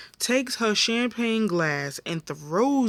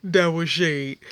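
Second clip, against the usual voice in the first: teasing callout; 3 dB louder than usual. Real, not acted. Calling out Rosa's shade again.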